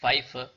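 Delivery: Pfeife said as FAIFA; teacher model word; German pronunciation. Shown as a demonstration. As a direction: say فیفه with an f sound.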